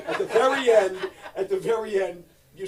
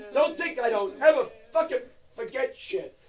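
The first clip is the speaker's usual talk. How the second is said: higher and louder mock threat; mock mobster threat; 8 semitones higher, 11 dB louder than usual. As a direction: bark it like a joking tough guy.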